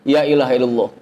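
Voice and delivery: "Ya ilaha illallah" begun with ya; wrong pronunciation. Shown as a demonstration. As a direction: demo the mistake with ya at the start. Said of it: "Ini mah diterusin". (contoh salah "Ya ilaha illallah" diawali ya)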